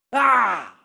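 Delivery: loud "Ah!" like swinging a blade; sharp exclamation with a sword stroke; sword-strike cry. Acted. Preacher acts out the double-edged sword, crying out.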